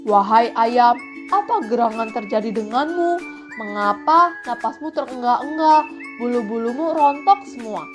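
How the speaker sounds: puzzled crab questioning a friend; lightly voiced concerned crab. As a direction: ask with curious concern. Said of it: "tanya kepiting".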